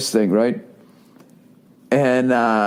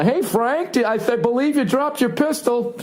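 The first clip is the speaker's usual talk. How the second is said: higher, politely mild suburban dad voice; classic cul-de-sac neighbor; 8 semitones higher than usual. Retold or imitated. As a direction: play a bland, polite suburban neighbor, pitched up. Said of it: "Just classic cul-de-sac".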